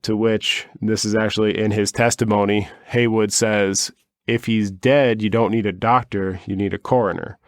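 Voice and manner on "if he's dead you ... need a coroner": bad Boston accent. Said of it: "That was a bad accent".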